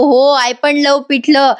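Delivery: slow, drawn-out forced enthusiasm; eager copycat. Retold or imitated. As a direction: drag it out as if faking delight. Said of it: "लगेच पार्थ म्हणतो".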